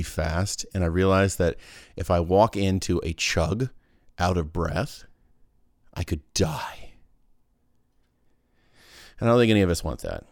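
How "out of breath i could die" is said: whisper. Pretend. Mock dramatic about chugging breathless.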